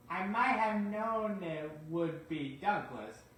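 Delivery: slow, lightly voiced exasperated controller; a hint of a fed-up chief; weary boss. Sir Topham Hatt complains.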